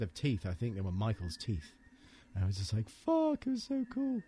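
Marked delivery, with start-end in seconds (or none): 2.9-4.2 high-pitched excited gush; excited exclamation. Retold or imitated. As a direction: squeal it out with glee. Excited retelling of handling props.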